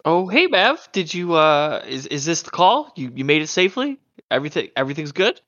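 put-on bright, eager young woman on the phone; cheerful and a little anxious; bubbly young woman. Lena answers Mav's call.

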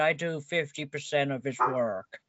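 a hint of offended Cage; Nicolas Cage clone. Clone of Nick Cage complaining to the host, light impression. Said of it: "I'm his clone, Nicolas Cage".

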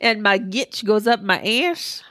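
put-on slow Canadian small-town accent; hammed-up Canadian accent. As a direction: drag it out in mock Canadian. Continuing the Canadian accent bit.

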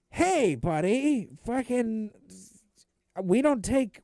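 put-on high, loud old-movie tough guy; tough guy bartender. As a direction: bark it slowly as a hammed-up barman. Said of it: "the tough guy bartender".

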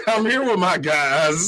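intro said through laughter; giggling while saying it; laughing. Real, not acted. Cracking up mid intro.

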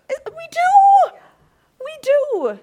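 high, loud insistence; high loud emphasis; emphatic. Real, not acted. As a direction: hammer it home.

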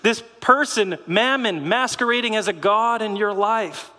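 amused, scornful voicing of Jesus; mocking Jesus. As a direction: point and scoff at the clown. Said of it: "Jesus is saying".

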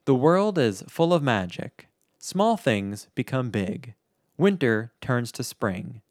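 slow, measured reading with pauses; deliberate, solemn-paced quote reading; quote recitation. Acted. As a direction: recite it slowly, phrase by phrase. Reads out the closing quote.

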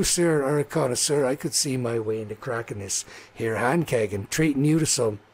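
lightly voiced halfling pitching his beer; earnest, folksy salesman's patter; halfling brewer. Halfling brewer wooing a local with new beer, lightly voiced salesman.

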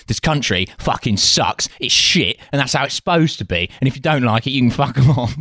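mildly indignant boast breaking into a laugh; mock British patriotism. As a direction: lightly parody a proudly miserable patriot. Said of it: "British patriotism is like".

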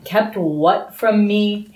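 slow, lightly eager question; a touch of keen curiosity; Harry, eager. Acted. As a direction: lean on "what" with mild eagerness. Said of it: "Harry said eagerly".

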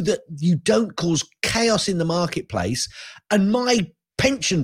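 ranting. Real, not acted. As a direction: vent your frustration. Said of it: "The speaker's rant is over".

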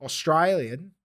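questioning "Australian", A turned to an eye sound; Australian accent imitation. Shown as a demonstration. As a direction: echo "Australian" as "Austrylian", rising. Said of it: "replace the A with an I".

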